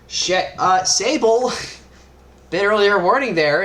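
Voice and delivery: loud high startled yelp at Sable; sudden loud cry; startled shout. Acted. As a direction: shout the warning up front. GM voices Tess yelling at Sable.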